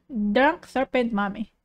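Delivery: normal talking voice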